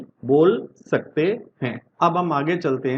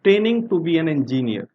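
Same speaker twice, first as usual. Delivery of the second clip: slow example read; much slower than usual. Shown as a demonstration. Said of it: "next देखते हैं".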